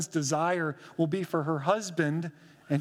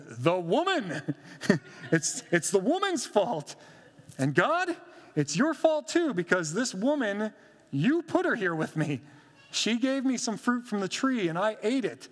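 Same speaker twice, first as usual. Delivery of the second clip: higher, pleading excuse-making, words tumbling out; whiny blaming; 3 semitones higher than usual. Acted. Adam shifting blame to God, higher and whining.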